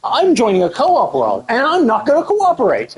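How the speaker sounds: mock selfish player. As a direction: voice the entitled co-op player. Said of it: "who are just like".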